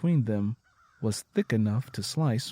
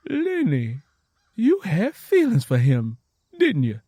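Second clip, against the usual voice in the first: pressing question; 7 semitones higher, 6 dB louder than usual. Acted. Tangy pressing.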